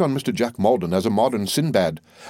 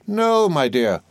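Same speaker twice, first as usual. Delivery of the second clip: a hint of a fussy, self-important old lady, pitched higher; lightly voiced old mother-in-law; 8 semitones higher, slower than usual. The old soldier pressing her point on the doctor, lightly voiced. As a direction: play the bossy mother holding forth, higher.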